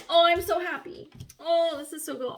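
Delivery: high, loud burst of joy; happy, emotional. Real, not acted. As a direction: gush with relieved happiness, nearly overcome. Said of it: "I'm gonna get all emotional again".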